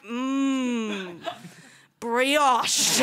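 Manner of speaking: drawn-out hungry hum, then the word; longing for food. Acted. Tiny girlfriend eyeing bodybuilder, hungry longing. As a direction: savour it like forbidden food. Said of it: "she must be like".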